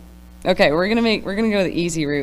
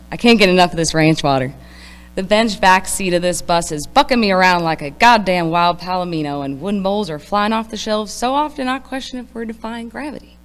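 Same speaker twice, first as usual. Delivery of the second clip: loud country twang; country accent; 10 dB louder than usual. Acted. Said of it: "read this in a country accent".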